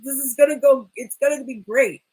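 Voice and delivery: a touch of overeager hype; mock excited. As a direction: pump yourself up again. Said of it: "working himself up".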